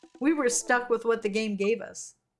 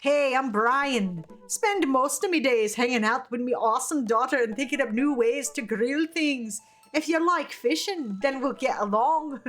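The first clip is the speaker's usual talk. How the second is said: hammed-up Scottish-Irish dad voice; Scottish-Irish accent. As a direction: play a jovial grill dad with a vague Scottish-Irish brogue. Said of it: "I don't know, Scottish, Irish accent".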